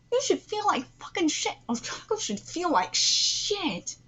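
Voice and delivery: high-pitched indignant rant; worked up and fuming; mad. Real, not acted. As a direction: vent real anger at the character. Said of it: "I'm mad".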